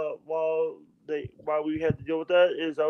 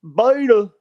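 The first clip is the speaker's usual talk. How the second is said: loud Jesse impression; 3 semitones higher, 10 dB louder than usual. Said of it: "you gotta push it out".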